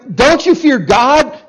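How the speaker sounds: urgent rebuke. Retold or imitated. Thief confronts the mocking criminal, urgent rebuke. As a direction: challenge him sharply. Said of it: "You know".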